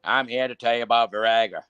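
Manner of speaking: lightly put-on politician voice; deadpan mock commercial read with halting repeats; mild impression of an elderly politician pitching a product; Bob Dole. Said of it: "I'm Bob Dole".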